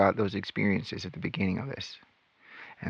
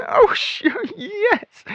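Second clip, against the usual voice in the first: chirpy sister; 3 dB louder, much slower than usual. Retold or imitated. Pioneer sister answers brightly.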